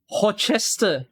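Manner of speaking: Worcester said as "hor-CHES-ter"; pronunciation attempt. Shown as a demonstration. Streamer unsure of the word, Worcester as "hor-chester". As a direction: open Worcester on "hor", then full "chester". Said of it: "I don't know how to pronounce it".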